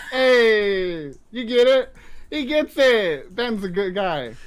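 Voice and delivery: put-on Brooklyn accent. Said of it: "my Brooklyn accent".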